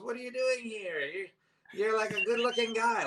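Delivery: high-pitched retold woman's disbelief; mock incredulous questioning. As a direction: ask in high, puzzled astonishment, imitating her. Retold masseuse questioning his visit.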